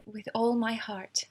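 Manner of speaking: soft, breathless whispered vow; tender whisper. Acted. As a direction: whisper it with your whole heart. Bride answers before the ceremony.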